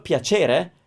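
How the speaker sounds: piacere with a ch, standard; plain standard piacere; standard ch sound. Shown as a demonstration. Teacher contrasting the standard ch in piacere. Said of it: "instead of".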